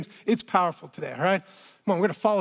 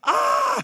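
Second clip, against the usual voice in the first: crying out; 11 semitones higher than usual. Retold or imitated. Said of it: "He cries out and says".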